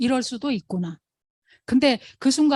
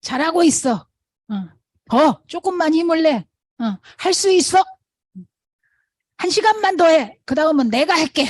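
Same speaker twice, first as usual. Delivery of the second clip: loud, higher cheering to a teammate; cheering shout; 6 semitones higher, 6 dB louder than usual. Retold or imitated. Runner cheering a partner on, loud shouts. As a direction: yell encouragement to keep them going. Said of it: "하면서 소리 지른대잖아요".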